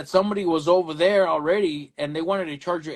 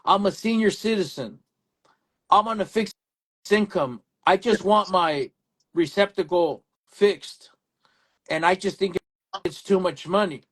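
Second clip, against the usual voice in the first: pleading senior customer; 4 semitones higher than usual. Retold or imitated. Elderly customer voiced, higher.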